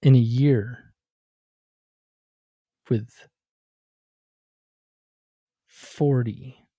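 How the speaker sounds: channel a vision like a medium; psychic voice. Pretend. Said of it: "I'm getting another prediction".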